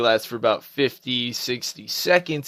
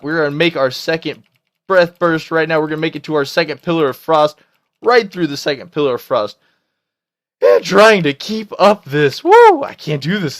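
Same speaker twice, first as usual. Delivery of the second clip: excited strain; 5 semitones higher, 7 dB louder than usual. Real, not acted. Frantic burst during boss fight.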